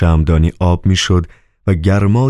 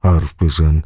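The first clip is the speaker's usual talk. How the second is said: softened tone. A narrator's reading. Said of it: "لحن صدایش تلطیف شده بود".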